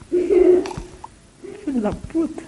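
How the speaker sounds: drawn-out curse. Real, not acted. Drawn-out curse after hit.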